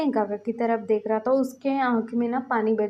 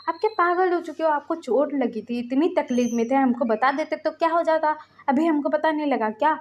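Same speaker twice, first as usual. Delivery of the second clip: acted reproach with raised pitch; exasperated scolding; 4 semitones higher than usual. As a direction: scold him for hiding his pain. Acted scolding of injured brother.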